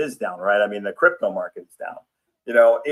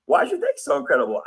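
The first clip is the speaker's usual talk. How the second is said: much higher, fast and eager question; curious friend; much faster than usual. Acted. A curious friend asks why your day is so great, eager and high. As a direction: play the nosy friend dying to know.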